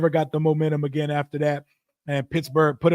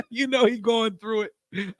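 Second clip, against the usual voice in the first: slow laughing; 4 semitones higher than usual. Real, not acted. Repeats the line, drawn out.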